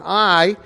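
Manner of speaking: "I" lightly punched and left hanging; emphatic I. Shown as a demonstration. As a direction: lean on "I", then stop. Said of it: "it's basically saying".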